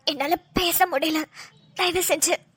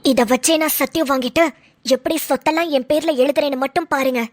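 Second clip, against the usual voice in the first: menacing threat; 6 semitones lower than usual. Acted. Wife threatens husband, scheming.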